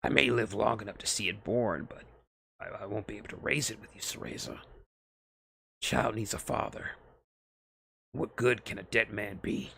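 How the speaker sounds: lightly gruff soldier voice; a hint of a weary old soldier; dying soldier speaking softly to Cereza; Snake voiced. A narrator's reading. Snake's gruff voice, far timbre.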